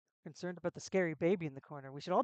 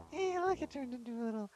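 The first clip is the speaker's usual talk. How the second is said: much higher excited call; delighted; 6 semitones higher, 3 dB quieter than usual. Real, not acted. Streamer delighted at a tiny creature, high excited call. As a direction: point it out with delight. Spots a cute little creature.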